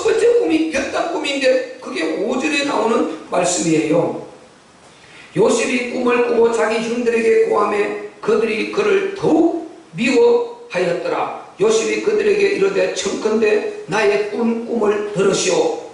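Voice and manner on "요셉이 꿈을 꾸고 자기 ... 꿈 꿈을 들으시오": measured sermon scripture reading. A narrator's reading. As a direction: read the verse out formally. (성경 봉독하듯)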